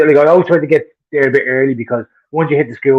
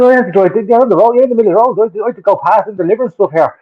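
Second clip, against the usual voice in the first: higher-pitched, indignant retelling of a row; exasperated arguing; 5 semitones higher than usual. Retold or imitated. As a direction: argue your case, pitch lifted. Retold row with parked driver.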